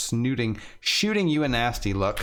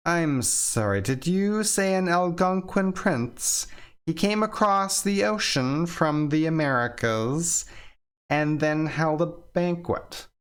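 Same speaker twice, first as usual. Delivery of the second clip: a hint of accented author, skeptical; suspicious author; 6 semitones higher than usual. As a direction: press him like you don't buy a word. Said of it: "The author replies, far more suspicious".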